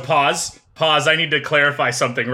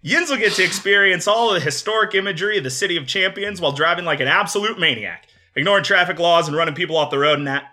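put-on Pittsburgh accent, laughing through; playful yinzer pitch. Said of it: "I'm gonna do a Pittsburgh accent the whole time".

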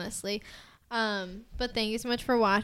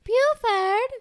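loud call; 11 semitones higher, 10 dB louder than usual. Real, not acted. Calling out a name.

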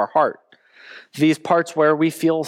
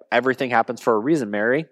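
mock platitude; 4 semitones lower, faster than usual. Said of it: "Jesus doesn't say".

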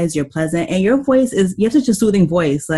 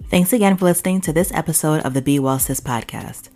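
podcast outro read; 2 semitones lower, 5 dB quieter than usual. Acted. Host to listeners after the interview, podcast outro read.

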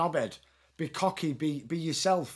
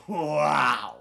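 impressed wow; 2 semitones lower than usual. Retold or imitated. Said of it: "and he went".

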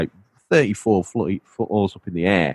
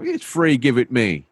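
put-on New York accent; 5 semitones higher than usual. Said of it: "New York accent".

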